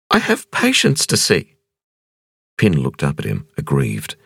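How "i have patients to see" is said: dazed wonder at meeting him; young woman Ping. A narrator's reading. Ping protests.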